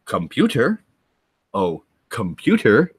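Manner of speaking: lightly voiced puzzled Scotty; imitating Scotty. Scotty talks into the mouse, lightly voiced and puzzled. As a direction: speak into the mouse hopefully. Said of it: "and goes".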